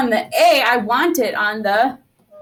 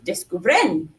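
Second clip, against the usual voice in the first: Descubren with the final "bren" punched; stress on last syllable; 4 semitones lower, slower than usual. Shown as a demonstration. Teacher showing what an added accent does, stress on the end of "Descubren". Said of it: "we punched that all of a sudden".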